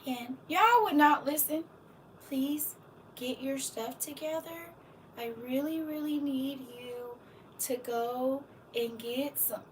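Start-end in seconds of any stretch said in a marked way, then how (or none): 2.3-9.6 gentle polite request. Acted. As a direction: ask sweetly, almost pleading. Soft church auntie asking politely.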